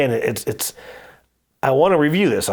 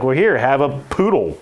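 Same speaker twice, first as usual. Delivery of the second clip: teasing mock bluff; 3 semitones higher, 3 dB louder than usual. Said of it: "started kinda picking on my wife".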